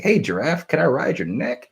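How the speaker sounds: high-pitched pretend plea to an animal; high, lilting mock request; playful asking. Acts out asking the giraffe.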